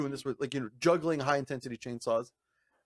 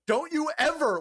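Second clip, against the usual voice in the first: much higher, scolding start; action-movie mom; 13 semitones higher, 4 dB louder than usual. Retold or imitated. To friend after his win, mock mom scolding. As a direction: scold like a relieved mother. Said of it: "like a mom from a fucking action movie".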